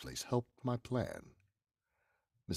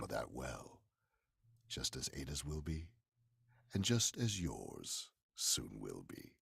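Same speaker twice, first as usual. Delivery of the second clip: slow, low threat; menacing threat; 4 semitones lower, 4 dB quieter than usual. Acted. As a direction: promise her death slowly. Killer threatens her.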